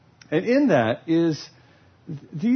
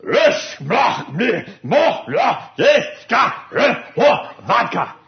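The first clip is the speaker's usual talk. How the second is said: mock Russian poetry; 4 semitones higher, 4 dB louder, slower than usual. Russian groom wooing his bride, a loud mock Russian recital. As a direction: fake Russian gibberish, loud and grand. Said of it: "beautiful Russian poetry".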